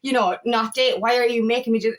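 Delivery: quick, mildly bitter string of complaints; understated angry whining, rattled off. Acted. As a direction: act out a touch of resentment, pressing on without a break. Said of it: "when we're angry and bitter".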